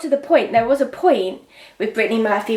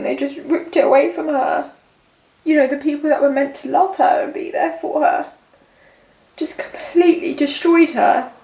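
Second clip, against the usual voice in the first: tearful; 4 semitones higher than usual. Real, not acted. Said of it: "This is the first time I've ever cried".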